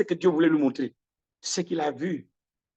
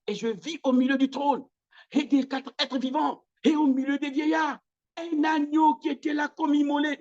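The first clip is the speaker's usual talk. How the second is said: climbing higher with each phrase of the verse; building higher recitation; 8 semitones higher than usual. Acted. Preacher reciting John's vision, pitch climbing. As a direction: rise and rise through the vision.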